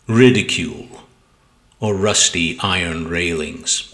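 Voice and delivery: measured, deliberate sonnet recital; poem reading. Acted. Poet reads own sonnet to video viewers, measured poetry reading. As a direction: recite with weight, pausing between phrases.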